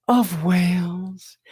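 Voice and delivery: slow, drawn-out whisper; hushed reveal. Pretend. Presenter revealing the next sound to audience, slow whisper. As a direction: whisper it slowly with wonder.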